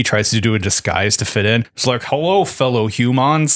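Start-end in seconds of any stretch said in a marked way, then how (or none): 2.0-3.6 slow stiff robot voice; robot greeting humans, slow and stiff. Retold or imitated. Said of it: "keep the robot voice".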